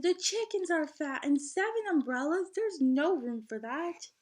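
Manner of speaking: put-on a boy's mild complaint; Musa resisting. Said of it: "Musa resisted".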